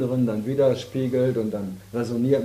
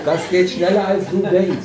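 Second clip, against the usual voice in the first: laughing while teasing; 5 semitones higher, 6 dB louder than usual. Real, not acted. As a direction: tease through a laugh. (lachend neckend)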